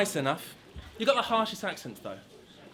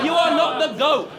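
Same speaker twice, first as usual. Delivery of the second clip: mock heckle; 6 semitones higher, 6 dB louder than usual.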